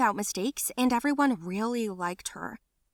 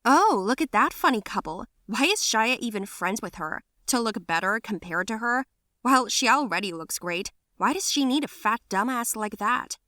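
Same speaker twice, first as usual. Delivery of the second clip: louder sneering whisper-talk; mocking gossip; 2 semitones higher, 3 dB louder than usual. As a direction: gossip meanly about her. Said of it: "statements of others, like".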